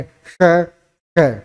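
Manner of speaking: "श" with a light whistling hiss; pronunciation demo. Shown as a demonstration. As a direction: say each "श" alone, air rubbing between tongue and palate. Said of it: "किस रूप में हम इनको उच्चारित करेंगे".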